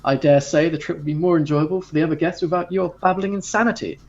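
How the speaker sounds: lightly voiced servant, dismissive and scoffing; a hint of a sniffy crew member brushing him off. Crew member scoffing at the raving passenger, mildly dismissive. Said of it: "the servant kind of just scoffs".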